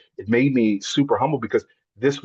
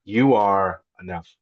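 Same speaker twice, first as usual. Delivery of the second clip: slow tender reading; slower than usual. Retold or imitated. Reading daughter's note aloud.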